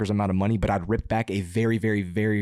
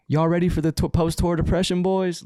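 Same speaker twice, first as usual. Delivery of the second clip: a hint of a Southern driver hyping the boys; Southern accent; 8 semitones higher than usual. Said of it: "in his little southern accent".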